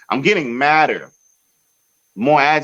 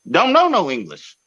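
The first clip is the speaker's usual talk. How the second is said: incredulous rant; 8 semitones higher than usual. Real, not acted. Ranting to friends about the security guard, incredulous and high.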